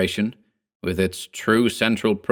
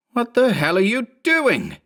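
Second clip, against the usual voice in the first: higher, sharp demand; angry demand. A narrator's reading. Clone demands answers from Berman, high and sharp. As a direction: demand it from under him. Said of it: "Mark the Second demanded".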